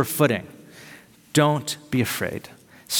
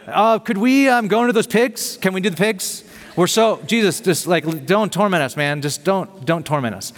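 a higher, pleading whine, lightly voiced; whining demon; 4 semitones higher than usual. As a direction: beg Jesus like a nervous kid. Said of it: "they, like, start whining to Jesus".

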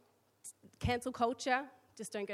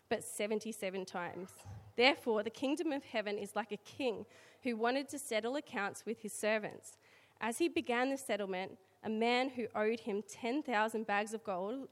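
scripture reading. Acted. Reads the scripture passage aloud.

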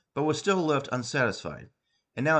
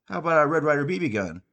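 eager suggestion; 5 semitones higher, 5 dB louder than usual. Acted. Santa suggesting gift.

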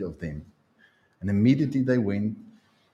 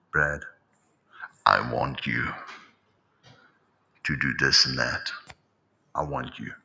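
much lower, echoing mock divine voice; deep God voice; 11 semitones lower, 3 dB quieter than usual. The expected voice of God calling Brad, deep and mock-grand. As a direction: drop deep like a sound effect. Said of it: "They want all the sound effects and buzz".

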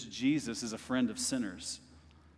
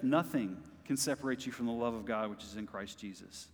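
hushed repeat; 3 semitones lower, 5 dB quieter than usual. Real, not acted. Repeats verse softly after shout.

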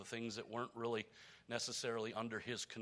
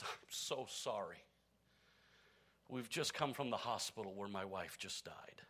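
tearful whisper; 4 semitones lower, 5 dB quieter than usual. Acted. Grieving widower apologising to the stockbroker, tearful whisper. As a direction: barely get the words out through tears. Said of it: "with tears in his eyes".

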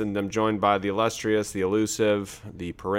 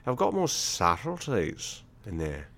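put-on Australian accent; 4 dB quieter than usual. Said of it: "progress of your accent".

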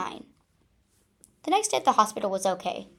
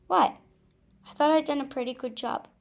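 gasped; 4 semitones higher, faster than usual. Acted. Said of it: "she managed to gasp".

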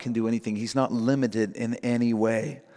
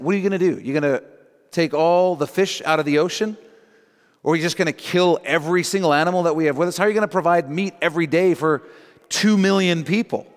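incredulous challenge; 4 semitones higher, 4 dB louder, faster than usual. Acted. Moses keeps challenging God, acted.

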